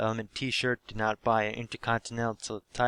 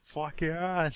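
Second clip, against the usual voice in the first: retold roar; 7 semitones higher, much slower than usual. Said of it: "I start roaring like a beast".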